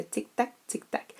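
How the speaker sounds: tic-tac clipped like a ticking clock; clock tick imitation. Shown as a demonstration. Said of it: "c'est un onomatopée".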